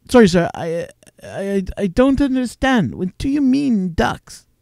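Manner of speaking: halting mock confusion, pitch climbing; flabbergasted, imitated. Telemarketer asked to clean ducks, mock flabbergasted. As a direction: play a baffled telemarketer stumbling over the words. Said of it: "He was flabbergasted that I would ask".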